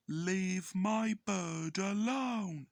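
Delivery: a lightly voiced owner, slow and firm; drawn-out protective warning, barely changed voice; Emo Skull voiced slowly. Emo Skull warning the narrator off his parrot, slow and firm.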